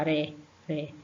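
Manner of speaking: "ré" with a quick tapped R; "ré" as a light flick of the tongue; weak R. Shown as a demonstration. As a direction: say "ré" without any push of air. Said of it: "a gente não põe força".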